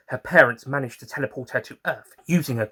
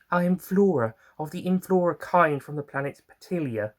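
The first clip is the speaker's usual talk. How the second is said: Flora's higher voice; 5 semitones higher than usual. Acted.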